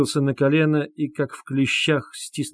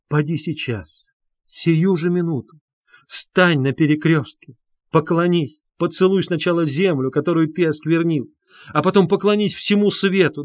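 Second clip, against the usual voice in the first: higher, louder, urgent pleading; fervent plea; 6 semitones higher, 6 dB louder than usual. Acted. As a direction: command him with burning faith.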